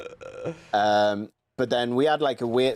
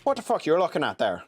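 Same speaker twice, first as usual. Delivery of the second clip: higher-pitched mock Irish challenge; Irish accent; 5 semitones higher than usual. Shown as a demonstration. Showing a friend Irish, mock Irish accent. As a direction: put on a confrontational Irish accent. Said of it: "then you got Irish".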